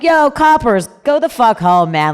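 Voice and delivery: retold yell at park police; defiant yell. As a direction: retell telling off the cops, half-shouted. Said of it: "And I was like".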